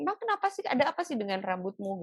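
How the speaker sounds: puzzled mother. Retold or imitated. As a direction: ask like a baffled mum. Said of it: "Sampai ibu saya tuh bingung".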